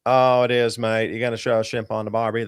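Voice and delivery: lightly put-on Aussie voice, mostly his own; half-hearted Australian impression; a hint of an Australian accent; mock Australian accent. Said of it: "That's our best accent".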